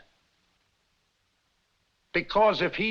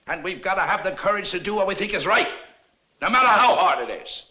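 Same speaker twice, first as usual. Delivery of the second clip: rousing appeal; 3 semitones higher, 5 dB louder than usual. Acted. Rousing speech to the townsfolk.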